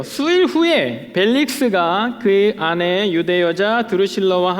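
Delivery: slow, measured Bible reading; scripture reading. Real, not acted. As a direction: read the passage out deliberately to the congregation. Reads the scripture passage aloud. (성경 본문을 천천히 봉독하듯)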